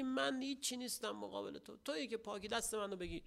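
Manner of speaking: humble quiet prayer. Acted. Preacher voices a believer bowing before God, hushed and pleading. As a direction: murmur it as a humbled worshipper begging God.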